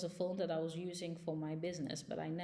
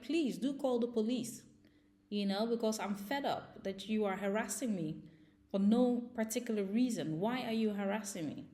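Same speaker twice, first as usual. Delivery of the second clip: higher, louder retold angry comeback; raised voice; 4 semitones higher, 5 dB louder than usual. Telling the neighbors through the door to call police, retold angry and loud. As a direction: fire it back at them, fed up and loud. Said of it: "I did raise my voice".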